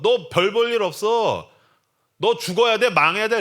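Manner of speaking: loud, high-pitched taunt; hostile shouting. Acted. Villagers surrounding the florist, loud hostile taunting. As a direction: raise your voice and condemn them.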